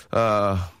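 usual speaking voice

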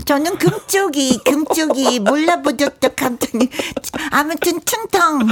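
tongue-tied kid voice imitating a lisp; lisping child voice. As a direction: talk with a short tongue like a child. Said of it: "갑자기 혀 짧은 소리를 하고 있어".

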